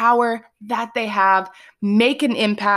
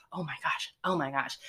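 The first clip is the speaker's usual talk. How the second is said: sister's quote; 4 semitones lower, 12 dB quieter than usual. Retold or imitated. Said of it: "She's like".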